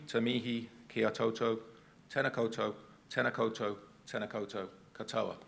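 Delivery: measured, ceremonial te reo mihi; formal Māori greeting. Acted. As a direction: deliver it like a formal welcome.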